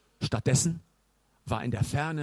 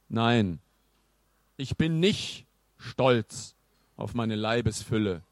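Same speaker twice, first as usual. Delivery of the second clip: dry; 3 semitones lower, slower than usual. Acted. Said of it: "antwortete er trocken".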